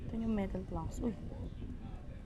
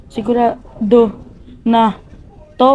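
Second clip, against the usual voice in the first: slow emphatic; 4 dB louder, slower than usual. Shown as a demonstration.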